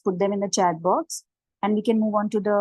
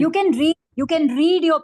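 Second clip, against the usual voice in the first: higher, louder urging; raised insistent voice; 5 semitones higher, 6 dB louder than usual. Real, not acted. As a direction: call it out to be heard. Urging presenter over bad line.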